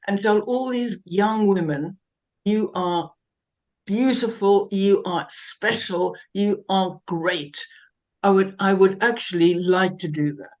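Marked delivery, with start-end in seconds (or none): 2.4-7.6 reassuring. Pretend. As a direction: tell them gently, slowly, like a fairy godmother. Fairy godmother tells young women.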